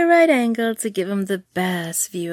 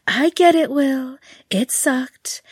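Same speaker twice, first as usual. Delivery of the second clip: higher, louder protest; exasperated; 5 semitones higher, 5 dB louder than usual. A narrator's reading. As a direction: throw up your hands. Exasperated Carolina, rising.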